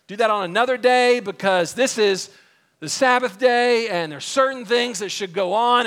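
acted pompous objection; officious synagogue leader. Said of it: "that's essentially what he's saying".

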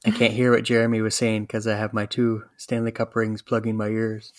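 lightly put-on bad French accent; a faint, self-mocking French accent; horrible French accent. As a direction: quote the goalie in a clumsy French accent. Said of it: "Forgive my horrible French accent".

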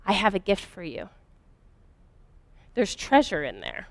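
a low, hushed voice that lingers in the mind; haunting quiet voice. Retold or imitated. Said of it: "that voice".

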